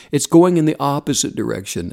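ordinary delivery

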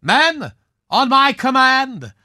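rally your men like a hammy costume villain, then spring the trap; old film star reprising his villain's speech; hammy swashbuckler villain. Acted. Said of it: "Well, I recognize that speech".

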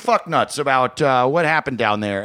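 lightly imitated TV news anchor; mock newscaster, trying to stay professional; a hint of studio-anchor polish. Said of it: "a professional newscaster and trying to be".

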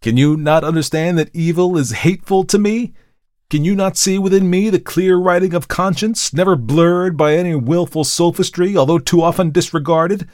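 loud, high-pitched, indignant pleading; impassioned plea. A narrator's reading. Markheim begs the visitor to look within, impassioned plea. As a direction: build urgent questions, begging to be understood.

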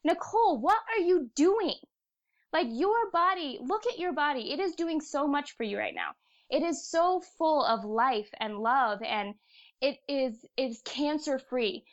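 the universe scolding her, then softening. Retold or imitated. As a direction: inner voice pleading with Nicole about her body. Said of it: "the universe saying to me".

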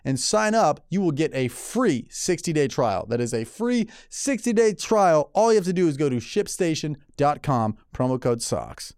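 sponsor read with slow, measured emphasis; podcast host ad read. Acted. Reads a sponsor ad.

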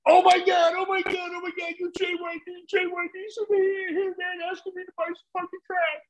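very high, fast, giddy squeal; the dealer recognizing JYD, squealing high and fast; starstruck fan. Retold or imitated. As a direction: gush like a fan who just met his hero.

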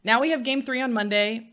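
ordinary delivery

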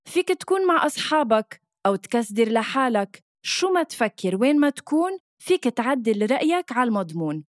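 upbeat commercial voiceover; ad read. Acted. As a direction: sell it like a radio ad. Reads radio ad script.

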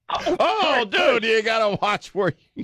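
high startled oh dude; surprised dude. Real, not acted. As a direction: jump in, startled, to stop him. Host reacts to swearing on air.

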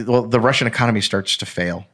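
normal talking voice

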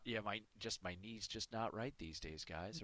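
a golfer blaming his knee after a bad shot, mumbled; mock excuse-maker. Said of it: "the person who lays the excuse".

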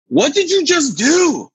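high, slow raspy late-night radio voice. Retold or imitated. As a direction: rasp it out like a call-in radio host. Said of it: "She had a real raspy voice".

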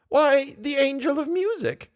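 put-on high, matter-of-fact old lady voice. A narrator's reading. Old lady explains to Raoul, high and simple. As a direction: say it as plain truth.

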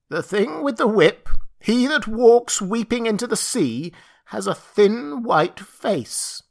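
high, slow bleating creature voice; bleating satyr voice. Acted. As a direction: bleat it like a goat man. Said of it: "said the satyr".

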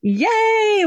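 high bright yay; excited cheer. Real, not acted. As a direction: cheer it out, delighted. Host cheers guest's excitement.

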